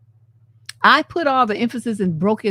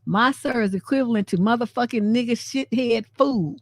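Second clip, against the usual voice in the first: ordinary delivery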